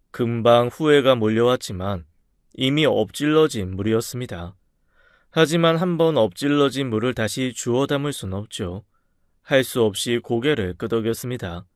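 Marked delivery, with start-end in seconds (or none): none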